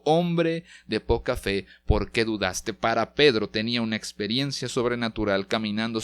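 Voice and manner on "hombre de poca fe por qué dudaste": stern rebuke. Acted. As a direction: scold him with firm disappointment. Jesus rebukes sinking Peter.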